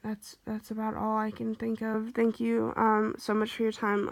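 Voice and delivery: short breaths between phrases; a little out of air; shallow breathing. Real, not acted. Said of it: "I'm so sorry for my, my breathing".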